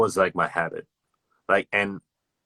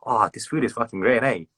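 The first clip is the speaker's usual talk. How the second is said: Aussie emphasis; 4 semitones higher than usual. Retold or imitated.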